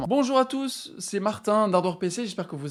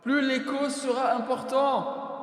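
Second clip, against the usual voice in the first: reverb voice. Shown as a demonstration. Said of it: "là vous m'entendez en mode reverb".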